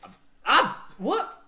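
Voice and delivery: high, loud flustered stammer; startled stammer. Acted. Maid stammering in shock after the push, high and loud. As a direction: caught completely off guard.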